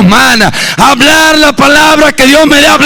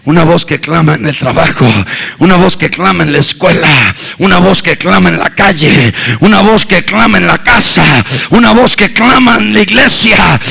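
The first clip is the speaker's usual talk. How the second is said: building refrain; 7 semitones lower than usual. Acted. Preacher builds the refrain up to a shout for the church.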